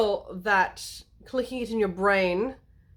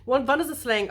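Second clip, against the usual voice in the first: playful put-on German accent; German-accented aside. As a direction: drift into mock German. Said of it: "Okay, I'll back to normal".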